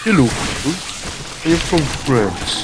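attempted French accent. Shown as a demonstration. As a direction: introduce yourself in an amateur French accent. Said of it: "Maybe I can make French accent from France".

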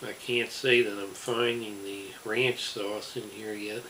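speaking with food in mouth; words muffled by chewing; talking while chewing. Real, not acted. Seen 1: Bitten burger held at mouth; cheeks look full after the bite at -5.

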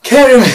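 high, loud "Caramel" as "KERRY-mel"; quoted "Caramel", first syllable like "care", tipping into laughter; caramel said her way. Retold or imitated. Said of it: "I heard someone".

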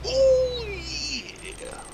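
very high falsetto "Oh, yeah"; squeaky oh yeah. Pretend.

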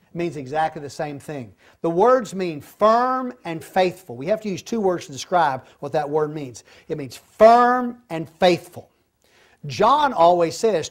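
ordinary talk, nothing marked

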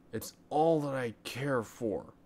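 a hint of a whiny kid; boy's voice. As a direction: play the stubborn little boy. Boy refusing dinner.

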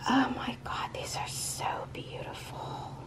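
very soft, voiceless whisper; awed whisper. Real, not acted. Speechless over a follower's gift, awed whisper. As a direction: whisper it, overwhelmed.

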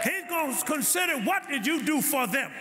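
preaching hard, pitch up and ringing; full-force preaching. Acted. Pastor preaching hard at the congregation, full force. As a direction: drive the sermon home to the church.

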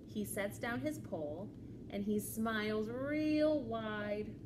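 lively, measured storytime reading; children's story read-aloud. A narrator's reading. Librarian reads a picture book to children, animated storytelling. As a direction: read to little ones, pausing before the reply.

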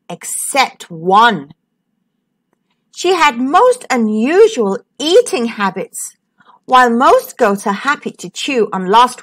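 put-on lively, sing-song reading to children; animated children's story narration; storytelling voice. A narrator's reading. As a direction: read it like a bedtime picture book.

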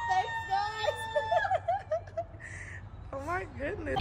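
high squealing laughing thanks; excited. Real, not acted. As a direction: squeal with joy. Reacting to birthday song.

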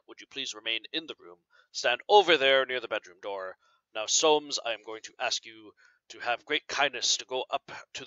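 reading a detective story aloud to the class. Acted. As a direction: read it like a storyteller, giving each character a turn. Teacher reads a Holmes story aloud.

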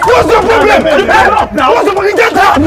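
high, loud commands; shouting. Acted. Man yelling to grab the crying woman. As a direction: yell to grab her.

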